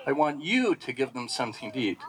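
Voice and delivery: "you" stressed, the line falling away; commanding stress on you. Shown as a demonstration. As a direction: make "you" the point, a firm command. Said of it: "The give is given in a command".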